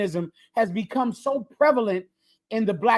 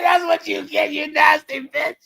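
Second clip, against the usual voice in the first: high shouted comeback; high mock yell; retold retort; 7 semitones higher than usual. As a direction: shout it back at her, mocking. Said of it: "I said".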